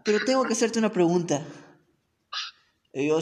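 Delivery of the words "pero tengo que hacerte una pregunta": put-on girly voice. Storyteller voicing the girl praising his video, high and girlish.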